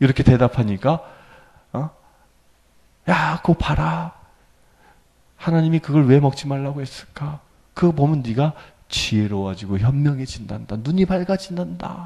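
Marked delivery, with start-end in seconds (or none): 3.1-12.1 soft, coaxing, tempting serpent-like whisper. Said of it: "이렇게 속삭이잖아요".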